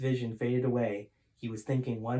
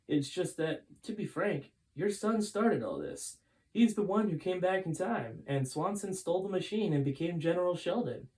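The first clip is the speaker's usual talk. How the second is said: lightly voiced high old man, calm but grave; Folger's voice; 6 semitones higher than usual. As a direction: explain a hard truth, pitched up. Folger explains to Gray.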